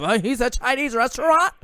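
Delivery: a quick joking put-on Asian accent; mock Asian accent. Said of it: "me doing the accent".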